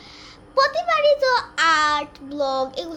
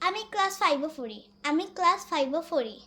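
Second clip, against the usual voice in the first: Sylheti dialect. Shown as a demonstration. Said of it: "এটাকে আমরা সিলেটি ভাষায় বলি".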